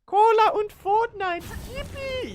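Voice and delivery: very high, squealing excited kid in mock German; German meme kid. Streamer imitates the German meme kid for chat, high squealing. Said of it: "the German meme kid who says".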